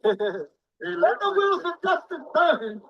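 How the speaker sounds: slow, drawn-out mock solemnity. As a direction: stretch it like a pompous official. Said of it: "like they said in Springfield".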